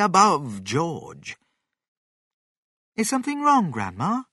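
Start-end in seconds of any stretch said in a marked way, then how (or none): 3.0-4.2 gentle, concerned question; kindly. A narrator's reading. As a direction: ask with kindly concern, lifting the pitch. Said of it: "he asked kindly".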